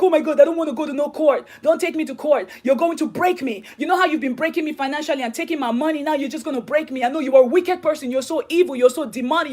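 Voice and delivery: mildly agitated, imitated complaint; protesting husband. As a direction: voice his accusing protest, a touch heated. Voicing husband's protest about going to court.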